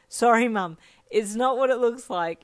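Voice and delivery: loud, high apology; sheepish outburst. A narrator's reading. Caught embracing a friend by mum, loud sheepish excuse. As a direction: blurt the excuse to your mum.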